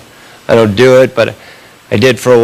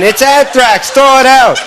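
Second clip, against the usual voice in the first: panicked shout; 10 semitones higher than usual. Pretend. Buddy panics over the envelope.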